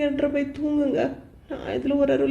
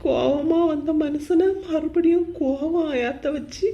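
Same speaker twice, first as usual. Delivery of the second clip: sobbing. Acted. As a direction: let the sobs break the words. Complains of mother-in-law, sobbing. (விம்மி அழுதபடி)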